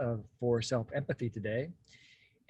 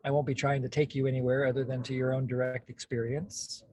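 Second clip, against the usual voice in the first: normal talking voice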